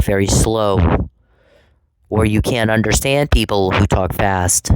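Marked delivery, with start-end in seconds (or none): 0.0-1.1 very slow. Shown as a demonstration. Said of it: "requires people to talk".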